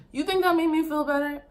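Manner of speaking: incredulous high question. Real, not acted. Asking viewers about his apology, high incredulous question. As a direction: ask it in outraged disbelief.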